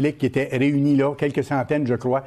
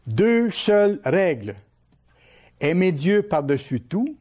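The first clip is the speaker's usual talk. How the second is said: slightly raised, deliberate delivery in short phrases; measured message reading; 2 semitones higher than usual. Acted. Preacher reads the pope's message to his listeners, measured and deliberate. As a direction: read out a solemn translated message, pausing between phrases.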